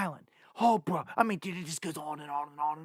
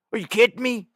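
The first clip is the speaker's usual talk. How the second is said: higher and louder, in disbelief; real outrage, half shouting the question; exasperated outburst; 5 semitones higher, 7 dB louder, faster than usual. Real, not acted. Vlogger to his viewers, disbelieving and loud.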